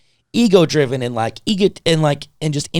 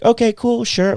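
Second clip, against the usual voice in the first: sweetly agreeable, pitched up; nice, agreeable; 9 semitones higher than usual. Retold or imitated. Sister answering hospital staff who refused care, sweetly nice. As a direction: imitate an easygoing sister, high and obliging. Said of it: "she was really nice about it".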